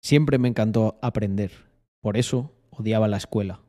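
announcer read, lightly pushed; measured delivery with a hint of announcer; forced locutor voice. Shown as a demonstration. Streamer retakes the phrase for a clip, forced locutor voice. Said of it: "¿O la fuerzo más?".

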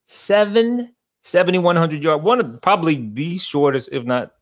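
mock Boston announcer voice, slowed; hammed-up Boston sportscaster; Boston accent. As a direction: lay on a Boston preview-host accent. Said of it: "What was that, uh, accent?".

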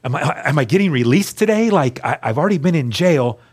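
hoping hard to be let out; hopeful excitement. Retold or imitated. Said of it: "'Cause I'm so hopeful".

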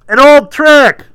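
loud, high call from afar; heckling shout. A narrator's reading. Gallery heckler calling out the magician, loud shout. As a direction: yell it across the theater. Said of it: "came from the gallery".

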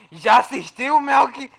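pestering, loud and high; loud nagging imitation; nagging friend. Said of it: "ele falando assim".

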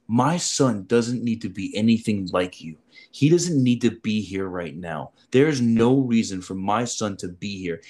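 mildly acted motherly tirade; agitated mother. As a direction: lay it out word by word like a fed-up mom. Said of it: "really agitated about even being here".

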